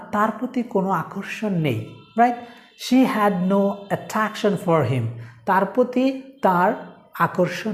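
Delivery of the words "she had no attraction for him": slow dictation. Shown as a demonstration. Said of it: "example sentence".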